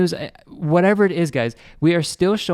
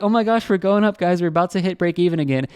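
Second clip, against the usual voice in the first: mock excited buyers; 3 semitones higher than usual. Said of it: "was getting very excited".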